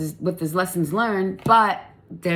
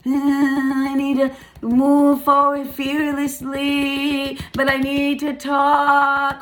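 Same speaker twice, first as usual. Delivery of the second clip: slow, trembling words pushed out through nerves; quivering voice; 5 semitones higher, 4 dB louder, much slower than usual. Real, not acted. Reader fighting nerves while urging courage, voice quivering. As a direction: let the voice shake as you force it out. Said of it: "my voice is not quivering".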